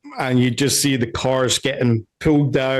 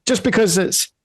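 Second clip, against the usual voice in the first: higher-pitched insistent reasoning; raised, suspicious rebuttal; balcony guard; 6 semitones higher than usual. Acted. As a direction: argue the point from the balcony. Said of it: "he's saying".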